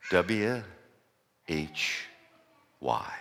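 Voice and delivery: each letter said alone, W, H then Y, with long pauses; spelled out. Shown as a demonstration. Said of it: "three little letters".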